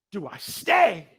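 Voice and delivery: strong, emphatic retold question; weighing a dilemma. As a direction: pose the first choice forcefully. Retold dilemma, first option.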